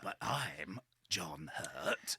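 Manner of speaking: slow, low, half-whispered impersonation; very low, whispered celebrity impression; John Hurt impression. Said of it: "supposed to be doing the two John Hurts".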